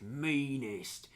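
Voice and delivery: unvoiced menacing whisper; whispered menace. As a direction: breathe it out like a threat. Whispered boast.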